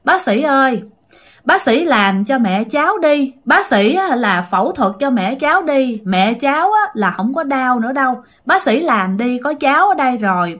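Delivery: put-on mild child voice asking the doctor to operate on her mother; child's voice. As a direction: gently imitate a six-year-old begging the doctor. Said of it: "giọng của cổ nói ra y như là một đứa con nít".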